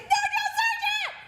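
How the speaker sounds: high, very loud recruit's reply; shouted refusal. Retold or imitated. Exhausted recruit refuses drill sergeant's coffee, shouting. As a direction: sound off as if it's a trick question.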